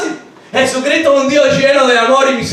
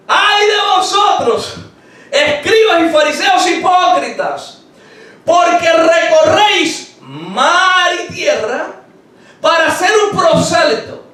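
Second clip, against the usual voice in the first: stern rebuke; 4 semitones higher than usual. Acted. Preacher voicing Jesus's rebuke.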